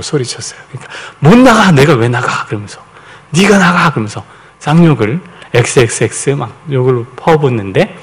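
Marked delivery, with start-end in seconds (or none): 1.2-2.4 demon's yell. Retold or imitated. Demon yelling back at son. 3.3-3.9 demon's yell. Retold or imitated. Demon yelling back at son.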